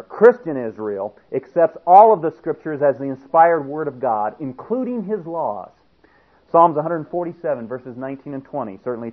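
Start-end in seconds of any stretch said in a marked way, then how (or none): 0.0-3.6 "Christian" hit loud and firm at the start; stress on CHRISTIAN. Shown as a demonstration. Preacher to his flock, stressing Christian loud. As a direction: lean hard on the word "Christian". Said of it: "and I emphasize the word Christian there".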